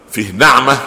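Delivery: نعمه said with an open a, naʕma; fatha reading. Shown as a demonstration. Sheikh shows students the fatha reading: نعمه as naʕma. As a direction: stress the open vowel: naʕma. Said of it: "النعمه بالفتح".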